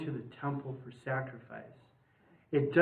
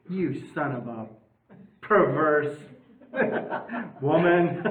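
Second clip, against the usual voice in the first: laughing at the insult; 4 dB louder than usual. Retold or imitated.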